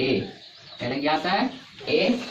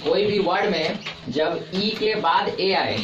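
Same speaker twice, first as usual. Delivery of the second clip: slow, every word spaced out; slow dictation; slower than usual. Shown as a demonstration. Teacher dictating the rule to pupils, slowly. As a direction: spell the rule out slowly so pupils can write it. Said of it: "किसके बाद आए?".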